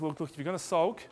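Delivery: calm God. Retold or imitated. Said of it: "God says".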